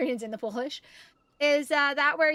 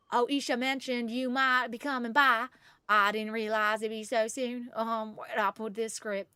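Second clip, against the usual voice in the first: put-on Viridian accent. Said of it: "That would be a Viridian accent".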